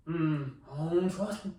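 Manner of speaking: suspicious imitated Southern mumble, growing firmer; Southern accent. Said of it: "why are you talking like this".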